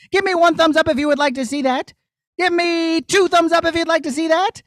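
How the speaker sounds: put-on high, excited voice for the kids; cheerful puppet host. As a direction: pump up the children, puppet style. Puppet host talks to children.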